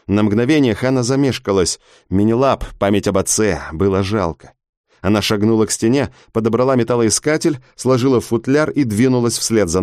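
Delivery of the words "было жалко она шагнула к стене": ordinary delivery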